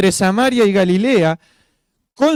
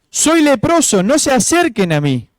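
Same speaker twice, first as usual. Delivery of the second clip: grito de advertencia imitado; 6 semitones higher than usual. Acted. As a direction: call out a half-shouted warning for everyone to hear. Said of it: "tenía que gritar para que todo el mundo supiera". (grito de aviso, a media fuerza)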